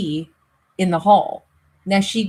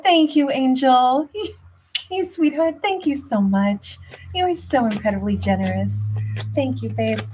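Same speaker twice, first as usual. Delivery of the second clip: grateful; 6 semitones higher than usual. Real, not acted. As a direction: gush gently with thanks. Thanking a viewer for a gift.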